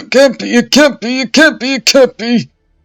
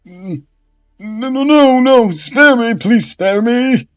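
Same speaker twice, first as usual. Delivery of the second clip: terrified pleading; 13 semitones higher, 10 dB louder than usual. Acted. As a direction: scream for mercy. Bishop begs before burning.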